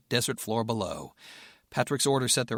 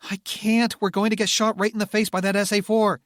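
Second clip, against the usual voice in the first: panicked yell; 10 semitones higher, 7 dB louder than usual. Acted. Rebecca refusing in panic.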